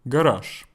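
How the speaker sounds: garage ending in voiceless sh; final sh. Shown as a demonstration. Teacher giving an example of the rule, final sh. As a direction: say "garage" the Russian way, closing on sh. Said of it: "just like in the word".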